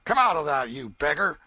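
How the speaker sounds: loud gruff order to come out; rough command. Acted. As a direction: bark him out of hiding. Raftsman orders the boy out.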